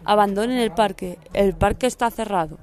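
loud police announcement; through a megaphone. Retold or imitated. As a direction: call it out like a cop on a loudspeaker. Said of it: "pasa la policía diciendo que".

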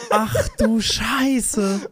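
very slow, drawn-out curse through laughter; laughing disbelief. Real, not acted. Friend laughs in slow disbelief at the story. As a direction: laugh it out in amazement.

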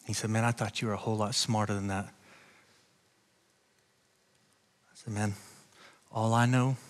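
low, soft, confiding storytelling; hushed testimony. Acted. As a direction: draw them in close with a hushed voice. Intimate personal testimony, hushed.

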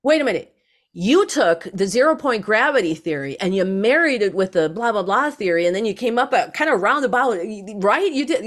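a physicist who suddenly gets it; excited physicist. Retold or imitated. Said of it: "The physicist was like".

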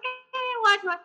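high, startled hey what what; a sudden high, startled what. Retold or imitated. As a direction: jump up in pitch, caught off guard. Retells her startled reply.

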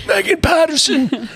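high, projected Long Island holler; booming Long Island voice. Retold or imitated. Parent hollering at daughter on the field, Long Island accent. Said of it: "in this booming Long Island voice".

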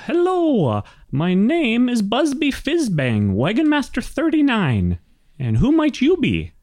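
put-on high-pitched old gnome introducing himself; gnomish gentleman. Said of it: "and he says".

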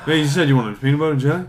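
quick laughing question; laughing, fast. Acted. Offering a sandwich after war talk, fast and laughing. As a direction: rattle it off through laughs.

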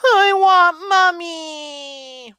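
high, loud, very slow crying wail; high drawn-out toddler wail. Acted. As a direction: bawl like a small child for his mother. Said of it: "wailed Billy Bob".

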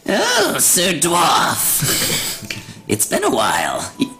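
lightly voiced old hag; a hint of a scheming hag; Putricia hag voice. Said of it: "gotta do a hag voice".

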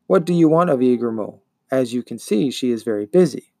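mildly irritated creature voice; angry buzzing monster. Acted. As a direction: brush off the visitor as the swarm monster. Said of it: "said the angry buzzing".

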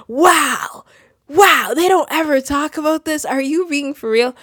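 high-pitched, amazed disbelief; mock astonishment. Acted reaction to first-time shock.

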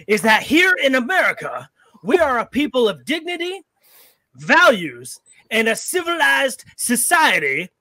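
rising to a shout; passionate closing argument. Acted. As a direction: thunder it at the jury. Impassioned closing speech to jury.

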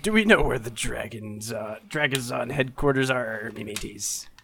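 put-on playful pirate accent. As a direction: talk like a pirate. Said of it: "keep that pirate voice up".

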